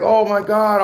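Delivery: high, loud mocking gasp over a flip phone; mocking the viewers who call him broke, high and loud; mocking gossipers. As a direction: play the shocked gossip, voice climbing. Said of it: "They're like".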